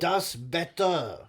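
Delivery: slow, drawn-out fake Russian; fake Russian accent. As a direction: put on a mock Russian accent, slowly. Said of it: "a fake Russian accent".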